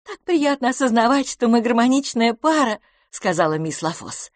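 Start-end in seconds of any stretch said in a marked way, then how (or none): 0.0-2.8 higher, bright-spirited lady conceding gracefully; playful woman teasing her rival; lively young woman. A narrator's reading. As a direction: voice Miss LaFosse up high and amused. Miss LaFosse voiced.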